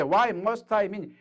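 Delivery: slow, clear English phrasing; slow model answer. Shown as a demonstration. Teacher acting out answering an American friend slowly. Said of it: "내가 널 왜 만나야 돼".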